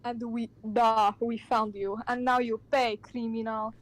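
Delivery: put-on Russian accent, halting delivery; hammed-up Russian-accented threat. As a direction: accuse in a mock Russian accent. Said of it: "Russian accent".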